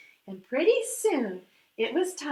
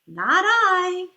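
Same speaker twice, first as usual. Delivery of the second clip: a loud, blunt "no" from the duck; loud refusal; 4 semitones higher, 6 dB louder than usual. Acted. Duck refusing to help the little red hen, loud blunt refusal. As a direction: bark it out, flat refusal.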